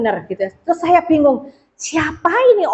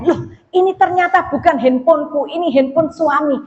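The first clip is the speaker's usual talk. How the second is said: mock surprise, pitched higher; startled realisation; 4 semitones higher than usual. Wife realising it is her husband's phone, mildly startled. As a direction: act out a sudden, mild startle. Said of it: "kemudian baru saya sadar".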